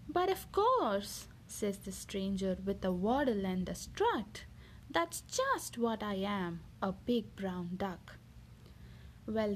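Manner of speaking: lively picture-book reading voice; reading to children. Acted. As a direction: read it like a bedtime story for a little one. Mother reads picture book aloud.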